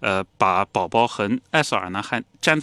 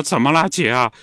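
声音一下子提高，慌张地追问; 吓坏了的弟弟急着问姐姐; 惊慌地问; 5 semitones higher, 4 dB louder than usual. Retold or imitated. 弟弟见姐姐惨叫. (弟弟被姐姐的惨叫吓坏，慌张追问)

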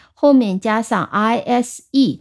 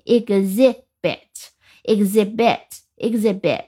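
"exhibit" with weight on the later syllables, silent H; stress toward the end; slower than usual. Shown as a demonstration. Teacher drilling learners after explaining stress, "exhibit" weighted toward the end. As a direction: repeat "exhibit", pressing on the later part. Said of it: "然后重音在后面".

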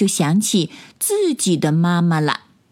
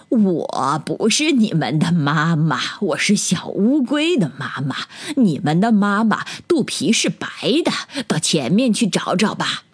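lightly voiced mother turtle; a hint of an unhurried mother turtle. 大乌龟笑着说. (略带乌龟妈妈的角色感)

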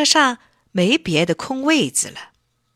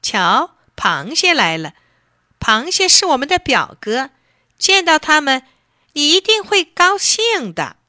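rising, loud, higher and higher; excited call; 6 semitones higher, 4 dB louder than usual. A narrator's reading. Lobster calling out that the crabs are coming, excited. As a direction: call out gleefully to point them out. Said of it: "忽然喊起来".

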